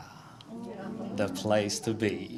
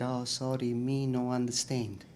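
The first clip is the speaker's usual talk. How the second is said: scared broken English; 2 semitones higher, 6 dB quieter than usual. Retold or imitated. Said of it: "I got scared".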